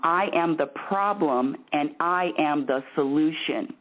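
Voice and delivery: firm, deliberate coaching demonstration; pushy, bossy. Shown as a demonstration. Bossy host showing a caller how to say it, pushy. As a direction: state it bossily, each phrase spelled out. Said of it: "I'm gonna be really pushy and really bossy".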